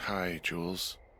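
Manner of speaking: drowsy, worn, sleepy voice, as if just woken. Woken up to answer a call, greeting Jules, tired. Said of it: "you sound tired".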